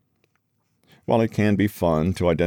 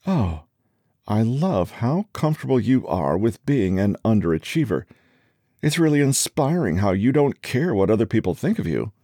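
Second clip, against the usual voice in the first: sarcastic; 4 semitones higher than usual. Acted. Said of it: "The woman who tells her husband".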